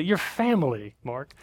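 lightly voiced in-law; hint of insistent relative; family insisting. In-laws insisting he's family, lightly voiced. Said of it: "I'd be like".

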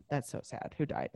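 whispered, hollow sympathy; mock hushed concern. Mimicking the detached killer, a whispered who died. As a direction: whisper it like fake pity.

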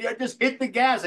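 high, loud exasperated yell; hammed-up angry director. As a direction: shout at the kid from below. Donner yelling.

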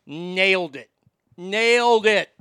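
put-on boastful Chicago accent, stretched vowel.

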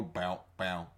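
low, soft mouth-made twang; imitated sound effect. Offering an unused show sound, imitated. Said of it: "another sound that was unutilized".

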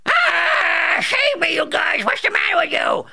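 high, loud cry for help; panicked shout. Acted. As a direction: scream for rescue in terror.

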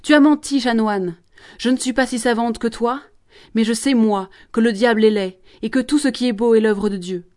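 loud accusing cry, opening highest; shouting back. Acted. Jeanne shouting at the promoteur, loud defiant cry. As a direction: throw the charge in his face. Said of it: "Elle crie au promoteur".

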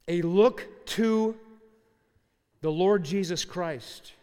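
slow, drawn out, each word weighed; preacher stresses the remedy to the congregation, slow and loud; slow emphatic preaching. Acted.

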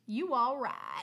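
slow shouted Southern "you all right"; Southern cheer. Retold or imitated. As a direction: hype yourself up in the mirror like Pat. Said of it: "check yourself out and go".

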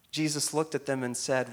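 normal talking voice

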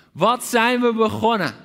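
a king crying out in dismay. Acted. Preacher voicing the desperate king, loud outcry. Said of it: "riep de koning uit".

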